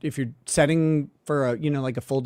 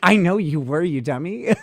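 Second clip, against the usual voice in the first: laughing retort; 2 semitones higher than usual. Pretend. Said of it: "It's like".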